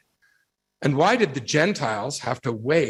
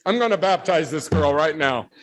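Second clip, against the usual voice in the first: mock eager; 2 semitones higher than usual. Joking he'd baptize the coworker now, mock eager. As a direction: play the overeager missionary. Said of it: "And I said".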